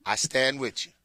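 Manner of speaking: gently rally a beaten team; halftime pep speech. Pretend. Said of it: "I come in and be like".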